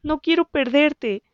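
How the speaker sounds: high, slow, tearful plea; whimpering. A narrator's reading. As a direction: plead through tears, slowly. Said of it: "gimoteó". (gimoteo agudo y lento)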